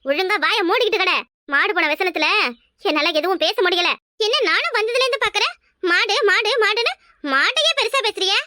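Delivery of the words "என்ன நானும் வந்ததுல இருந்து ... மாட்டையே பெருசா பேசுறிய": scornful complaint. Acted. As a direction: sneer at their fuss over the cow. Mother mocks the fuss over the cow. (மாட்டைப் பற்றிய கேலியான ஏளனம்)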